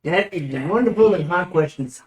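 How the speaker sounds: put-on lilting accent between British and Irish; wobbly accent, somewhere between British and Irish; swooping half-British, half-Irish accent; muddled British-Irish accent. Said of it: "Somewhere between Britain and Irish".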